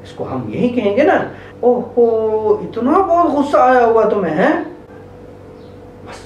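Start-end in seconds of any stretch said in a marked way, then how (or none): 1.6-4.5 gentle acknowledging. Shown as a demonstration. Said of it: "इतना ही कहना है आपको".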